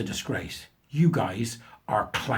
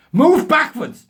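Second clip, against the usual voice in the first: put-on much higher, louder, slow German accent; mock German professor; 11 dB louder, much slower than usual. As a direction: ham up a self-important German scientist. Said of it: "of German extraction".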